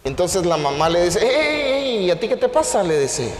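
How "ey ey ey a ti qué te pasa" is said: mother's challenge. Acted. Donkey's mother confronting her haughty son, high challenge. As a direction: pull him up short, pitched high.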